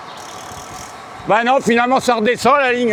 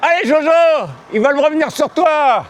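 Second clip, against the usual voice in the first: higher, urgent encouragement; cheering on; 6 semitones higher than usual. Real, not acted. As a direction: urge him on up the hill. Urging rider, high pitch.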